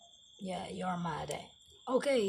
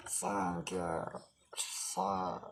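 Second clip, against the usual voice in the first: toy's thanks; 2 semitones lower, 3 dB quieter, much slower than usual. Pretend. Toy voice thanking deep and slow.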